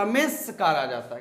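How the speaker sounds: रमेशकार with the s hissing into कार; hissing sound. Shown as a demonstration. Teacher shows students the hissing sound in रमेशकार. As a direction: run रमेश into कार so the s hisses. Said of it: "hissing sound create हो रहा है".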